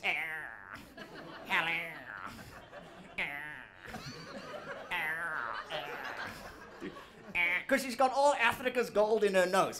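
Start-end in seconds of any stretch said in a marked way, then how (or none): 0.0-7.4 lightly voiced stuffy Queen, grunting eh; mock Queen. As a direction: sniff out each eh like a haughty monarch. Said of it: "That's how the Queen talks".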